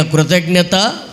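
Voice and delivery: "కృతజ్ఞత" with a rising, waiting end; word modelled for repeating. Shown as a demonstration. Preacher urges listeners to repeat "కృతజ్ఞత", modelled with rising end. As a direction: lift the end of "కృతజ్ఞత" to invite an echo. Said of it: "చెప్పండి నాతో పాటు గట్టిగా".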